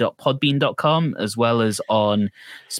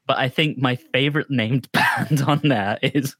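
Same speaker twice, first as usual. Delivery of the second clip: laughing. Real, not acted. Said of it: "sorry, I need to compose myself".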